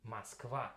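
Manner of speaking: Moskva with the first o reduced to an a sound; Moskva, unstressed o said as a; Russian Moskva. Shown as a demonstration. Teacher showing how she really says Moskva in Russian. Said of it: "I pronounce it more or less like this".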